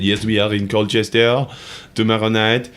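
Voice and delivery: put-on the band's reply in a light French accent; "tomorrow night" as a French busker would say it, French accent. Quoting the Paris band about their Colchester gig, mild French accent. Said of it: "That's my best one".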